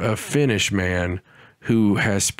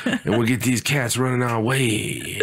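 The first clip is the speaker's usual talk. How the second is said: tough-guy hawk; 2 semitones higher than usual. Acted. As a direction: play the hawk as a hammed-up mobster boss. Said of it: "Is that how hawks talk?".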